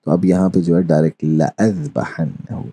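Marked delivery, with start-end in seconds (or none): 1.2-2.6 लअज़बहन्नहु with ला kept short; Arabic recitation, no madd; short la, recited. Shown as a demonstration. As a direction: read straight through without lengthening. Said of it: "तो इसको हम इस तरह पढ़ेंगे".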